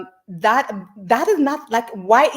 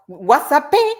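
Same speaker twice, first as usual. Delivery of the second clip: mock casual greeting; 7 semitones higher, 5 dB louder, slower than usual. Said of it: "what you do is".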